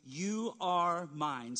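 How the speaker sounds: very slow, tender; tender you are mine. Shown as a demonstration. Parent voiced by pastor assuring a child, slow and tender. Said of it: "you are saying".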